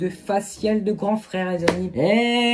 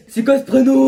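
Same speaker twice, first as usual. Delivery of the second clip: loud high mocking question; mocking exclamation; 6 semitones higher, 9 dB louder than usual. Real, not acted. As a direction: call it out in mock disbelief. Reactor mocks the name.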